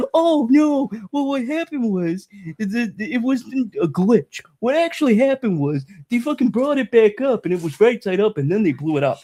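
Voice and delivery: mocking fan. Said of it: "don't fucking tell me".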